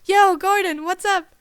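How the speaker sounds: loud, high, smug hello; cheeky greeting. A narrator's reading. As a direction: grin through the greeting. Shit-eating grin.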